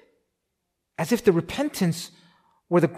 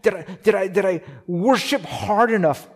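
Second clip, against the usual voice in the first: lightly voiced worried believer, a touch higher; mock the fretful worshipper, only a little raised; anxious believer; 3 semitones higher than usual. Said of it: "You're thinking".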